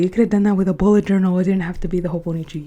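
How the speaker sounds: a loud, fast mock of viewers' objection; mocking critics. Viewers voiced loudly objecting she could have used a bullet journal. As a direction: rattle off the critics' complaint, loud and quick. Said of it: "so many of you are gonna say".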